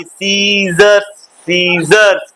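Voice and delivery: "सीजर्स" slow and stretched, silent C; correct pronunciation demo. Shown as a demonstration. Teacher shows class how it is read, "सीजर्स" drawn out. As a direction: draw out "सीजर्स" with a long "see". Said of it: "क्या पढ़ते हैं?".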